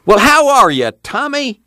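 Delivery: put-on high, delighted old grandpa greeting; proud grandpa's hearty hello; affectionate pride. A narrator's reading. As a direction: greet him fondly, pitch leaping up. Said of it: "eyes grinned with affectionate pride".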